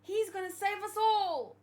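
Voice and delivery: put-on high, eager child shouting for daddy; excited little kid. Imitating a child bragging about her daddy to everyone, high and eager. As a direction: gush like a proud small child about dad. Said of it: "I'm like".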